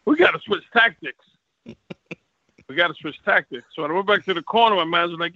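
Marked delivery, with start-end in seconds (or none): 1.7-3.7 slow, deliberate repeat; telling himself mid-fight, slow and deliberate; slow emphatic repeat. Retold or imitated. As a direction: spell it out slowly to yourself. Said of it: "I said to myself".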